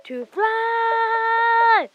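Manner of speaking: high loud yell; shouting fly. Real, not acted. Shouting a command to the chicken.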